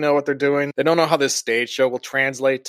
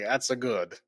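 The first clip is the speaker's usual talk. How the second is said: quiet fake Italian accent; 4 semitones lower, 10 dB quieter than usual. Podcaster describing his stage Chico's stock line, fake Italian accent. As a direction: lightly toss off a mock Italian accent. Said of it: "like, the Italian accent".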